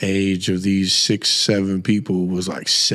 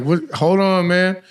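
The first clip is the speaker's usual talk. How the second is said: calling back; 8 semitones higher than usual. Retold or imitated. Dad calling back to son through the vent, raised high. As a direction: shout up to be heard. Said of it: "and I'm like".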